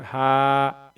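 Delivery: "हा" held out for an extended beat; long madd. Shown as a demonstration. Teacher showing khari zabar, long "हा". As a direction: stretch the vowel of "हा". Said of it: "एक अलिफ के ऊपर खींच करके पढ़ेंगे".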